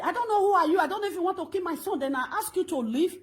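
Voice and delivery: loud, heated confrontation; angry shout. Retold or imitated. Woman yelling at an intruder in her compound, angry and loud. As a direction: shout him down, furious.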